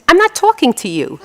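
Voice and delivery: mock sulk at her husband; sulky wife. Old wife after a fight snubbing husband, lightly voiced huff. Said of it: "she says to him".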